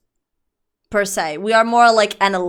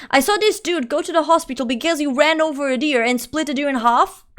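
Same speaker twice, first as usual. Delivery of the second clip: worked-up, raised-pitch worried rant; exasperated scolding; 4 semitones higher, 3 dB louder than usual. Acted. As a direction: scold them like a worried mother. Mock-scolding the biking viewer.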